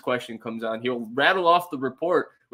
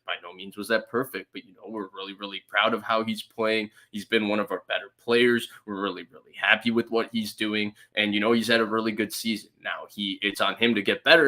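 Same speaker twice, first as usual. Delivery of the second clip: gruff monotone coach; 3 semitones lower than usual. Retold or imitated. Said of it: "monotone, like, kinda gruff ... chin down".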